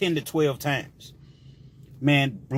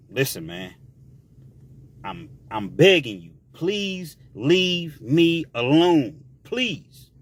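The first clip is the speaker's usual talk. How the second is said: pleading; slower than usual. Retold or imitated. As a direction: beg him to leave you alone. John begging Black to stop.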